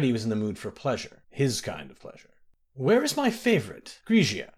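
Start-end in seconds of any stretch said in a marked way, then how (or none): 2.7-4.5 high, sharp demand for his favorite; a spoiled prince barking an order. A narrator's reading. Prince demands his favorite girl from the guild mistress, sharply. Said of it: "he demanded".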